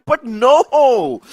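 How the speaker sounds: loud, high no; emphatic shout. Real, not acted. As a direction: bark out the denial. Caster emphatic outburst.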